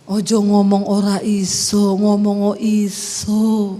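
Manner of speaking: slow, low Solo-style correction; Javanese pronunciation lesson. Shown as a demonstration. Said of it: "Dia bilang". (suami mencontohkan logat Jawa pelan)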